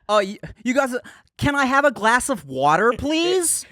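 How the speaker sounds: put-on British accent. Mocking Brits asking for water, in a posh British accent. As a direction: imitate a Brit asking politely for water.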